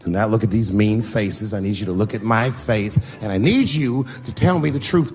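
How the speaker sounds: slow, soft reassurance; calm him gently, slowly; soothing father. Retold or imitated. Father calming his crying son in the office, soft.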